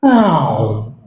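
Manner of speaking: low, sliding "oh" of a yawn; mock yawn. Imitating congregation bored by flat tone, mock yawn. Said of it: "nada yang datar nanti ada yang gini".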